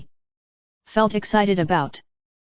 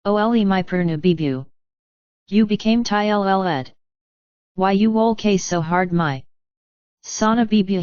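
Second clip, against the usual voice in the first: lightly voiced cooing baby talk; a man cooing to his fiancée in mild baby talk; sing-song baby talk. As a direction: coo at her like to an infant, only a hint of it. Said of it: "him talk in a sing-song voice mothers use for six-month-old infants".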